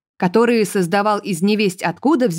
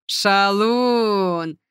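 a drawn-out, chuckling Шалун; pleased chuckle. A narrator's reading. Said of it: "довольно хохотнула". (довольно хохотнув, протяжно)

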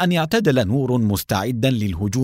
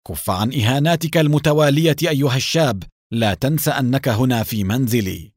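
angry shout; 2 semitones higher than usual. Acted. Gabriel rebuking Nour in his house, mild angry shout. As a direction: tell the young man off with anger. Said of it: "وصاح بغضب".

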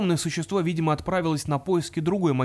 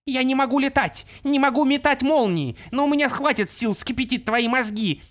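enraged pixie yell; 9 semitones higher than usual. Acted. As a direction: scream the threat at him. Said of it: "Опал закричала".

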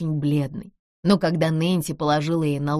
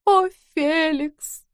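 медленно, высоко и протяжно; тяни имя, словно в забытьи; бездумный стон; 11 semitones higher, much slower than usual. Acted. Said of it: "бездумно повторяла". (вдова в забытьи зовёт мужа: протяжный стон)

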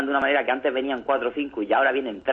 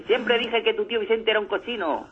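put-on high, prim old woman's voice; scandalized old lady; 9 semitones higher than usual. Old lady scolding the naked ghost, higher prim voice. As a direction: sniff it out like a shocked spinster.

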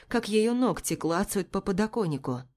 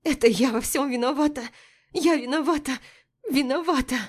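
teeth clacking while speaking; chattering teeth through the words; loose dentures; 7 semitones higher, 3 dB louder than usual. A narrator's reading. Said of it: "клацая зубами".

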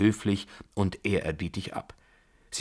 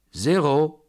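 high, very loud announcement; ringing call across the room; croupier's call; 8 semitones higher, 9 dB louder than usual. A narrator's reading. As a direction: cry out the result. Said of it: "rief der Croupier".

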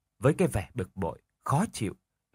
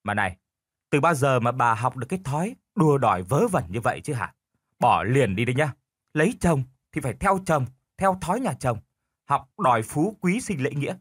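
forceful husband; 2 semitones higher than usual. Acted. Husband overpowers his wife, firmer scolding voice. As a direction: lay down the law to shut her up. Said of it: "lão mạnh giọng hơn để mà trấn át".

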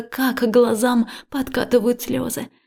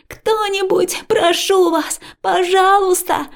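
high, loud begging; desperate pleading shout; 9 semitones higher, 6 dB louder, slower than usual. A narrator's reading. Liya begging anyone to save her, shouting. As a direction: plead at the top of your voice.

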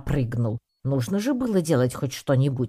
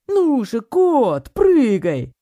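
high, loud jeering yell up at the cat; shout from below; 11 semitones higher, 7 dB louder, much slower than usual. Acted. Crowd member below yells at the cat on the roof, jeering shout. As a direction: heckle him from the street, loud and high. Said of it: "крикнул вдруг кто-то внизу".

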